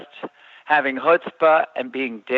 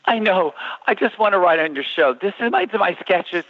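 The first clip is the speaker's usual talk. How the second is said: higher-pitched, lightly acted pleading; earnest plea; 5 semitones higher than usual. Hopeful writer begging the producer to read sketches, earnest pleading. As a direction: implore a producer for one chance.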